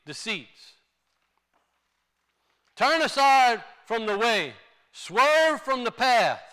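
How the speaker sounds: measured, declaimed Bible reading; preacher proclaiming a prophet's words; scripture reading. Acted. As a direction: read it out to the congregation in weighty, separated phrases. Reads scripture aloud to congregation.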